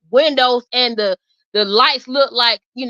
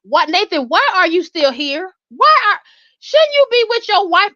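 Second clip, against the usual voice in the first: incredulous questioning; 5 semitones higher than usual. Retold or imitated. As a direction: build to indignant disbelief. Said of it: "I'm like".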